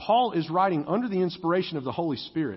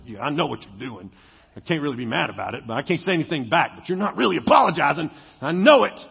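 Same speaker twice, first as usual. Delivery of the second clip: mock husband grumble; 4 semitones lower, faster than usual.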